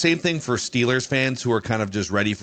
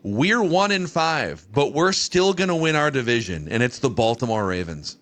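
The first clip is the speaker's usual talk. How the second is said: slow read. Real, not acted. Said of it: "the rung is called".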